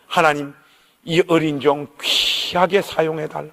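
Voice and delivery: a hint of a pastor praying tenderly. Pastor prays over him.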